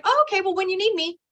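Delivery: light, high, no-pressure reply; cheery brush-off. Retold or imitated. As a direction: shrug it off sweetly up high. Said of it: "I was like".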